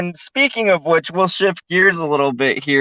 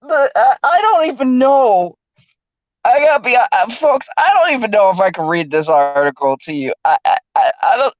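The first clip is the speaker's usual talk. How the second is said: laughing while talking; 6 semitones higher than usual. Real, not acted. Cracking up over the article.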